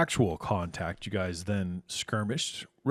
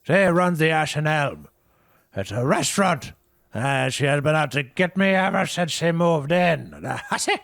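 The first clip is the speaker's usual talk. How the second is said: much higher, louder spiteful rant; ranting Herb; 8 semitones higher, 7 dB louder than usual. Acted. Herb ranting to Jack about the Ashen Elm owner, high and spiteful. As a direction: spit out the grudge. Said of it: "Herb voiced in scene".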